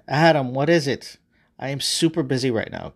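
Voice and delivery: mildly irritated brush-off; rather annoyed. Acted. Busy God interrupted by Adam, mildly annoyed. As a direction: push him away with mild impatience. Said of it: "rather annoyed".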